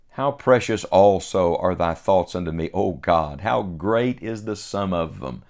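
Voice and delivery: measured, solemn reading of King James verses; scripture reading. Acted. Reads verses fourteen to seventeen.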